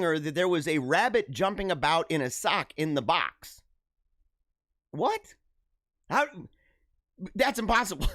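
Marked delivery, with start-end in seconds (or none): 4.9-8.1 sharp rising disbelief; surprised. Real, not acted. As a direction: blurt it out in shock. Reacting to rabbit in sock.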